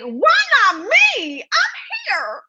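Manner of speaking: high, giggly self-pity, laughing through it; playful mock despair through giggles; laughing mock lament. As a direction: laugh while whining why not me. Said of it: "I was like".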